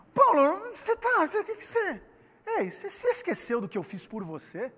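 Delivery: hammed-up hurt friend cutting in; indignant Barnabé. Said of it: "O Barnabé falou o seguinte".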